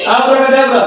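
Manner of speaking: plain quick abracadabra; kids party magician. Acted. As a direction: say the magic word briskly. First magic word said.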